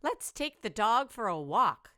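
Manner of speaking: high, loud little skeleton voice; a squeaky eager little bony kid. Acted. Little skeleton pipes up to the big one, high and loud. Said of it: "said the little skeleton".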